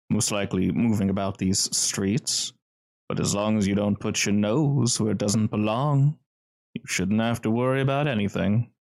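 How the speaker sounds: lightly voiced, measured, guarded host; veiled warning in a composed, decisive manner; smooth gentleman. Cellar's host warns the intruder off, lightly smooth and measured. Game master plays smooth stranger.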